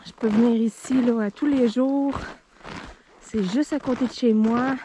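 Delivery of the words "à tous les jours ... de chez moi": winded from running with the dog; breathless, catching her breath. Real, not acted. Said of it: "je suis essoufflée".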